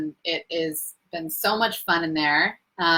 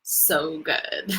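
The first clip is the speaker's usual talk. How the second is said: a lightly voiced Chris impression, slow and low-key; a half-hearted try at a friend's accent; imitating Chris; 3 semitones lower, slower than usual. Quoting her friend Chris to her live viewers, lightly imitated. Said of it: "let me try to be Chris".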